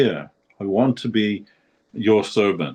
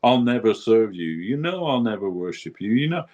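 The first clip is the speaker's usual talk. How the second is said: raised, earnest plea to the Lord; pleading prayer to Krishna; 6 semitones higher than usual. Retold or imitated. Guru addressing Krishna with a raised, pleading voice. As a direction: beg the Lord, voice lifted high. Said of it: "he said, he's talking to Krishna".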